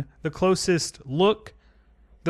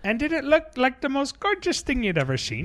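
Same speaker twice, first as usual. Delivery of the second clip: nerd voice; 9 semitones higher than usual. Pretend. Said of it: "And we're doing a nerd voice".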